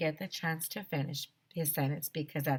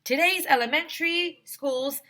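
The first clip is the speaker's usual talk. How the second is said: high, bright character voice; lighthearted protest; girlish squeak; high childlike voice; 9 semitones higher than usual. Acted. Narrator protesting then principal.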